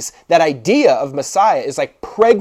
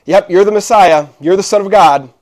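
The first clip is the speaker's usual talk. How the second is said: excited declaration; 3 semitones higher, 7 dB louder than usual. Retold or imitated. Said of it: "for Peter to be like".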